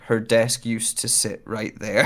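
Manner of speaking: slow, solemn poem line; poem reading. Shown as a demonstration. Performer showing a poignant line, slow solemn reading. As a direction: read it like a sad short story. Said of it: "You're doing a poem thing".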